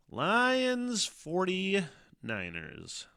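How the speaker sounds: high, slow, stretched-out hype call of "Lions forty-niners"; monster truck announcer. Pretend. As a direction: sell it like a monster truck rally ad. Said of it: "I sound like a Monster Trucks guy".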